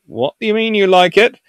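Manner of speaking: high, rising disbelief; acted puzzled British. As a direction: question it in mock alarm. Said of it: "And the British go".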